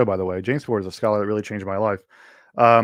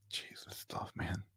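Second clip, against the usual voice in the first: whispered aside; 20 dB quieter, slower than usual. Real, not acted. Aside about weird online stuff.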